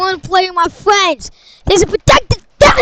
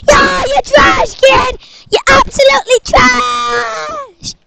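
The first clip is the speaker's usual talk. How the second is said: put-on higher, brash gamer kid trash-talking; hyped gamer kid; 4 semitones higher than usual. Son playing Fortnite taunting another kid, higher and brash. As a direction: crow over the game like a cocky teen.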